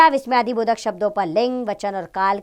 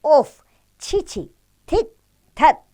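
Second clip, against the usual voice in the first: disgusted; 7 semitones higher, 4 dB louder, much slower than usual. Shown as a demonstration. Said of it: "घृणा बोधक शब्द है".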